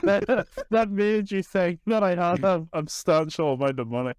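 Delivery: put-on lightly held, slipping French accent; French boatman accent drifting off course; wandering French accent. French boatman hurrying the passenger aboard, slipping French accent. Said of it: "I don't know why my accent is changing".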